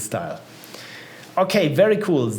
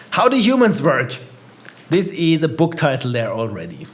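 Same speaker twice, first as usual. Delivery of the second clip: put-on Baltic accent. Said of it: "Why am I doing a Baltic accent?".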